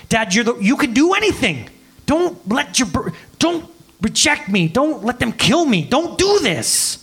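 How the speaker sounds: high, begging plea that climbs; desperate pleading. Acted. Jesus begs his Father in the garden, high pleading voice. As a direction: beg your father to spare you.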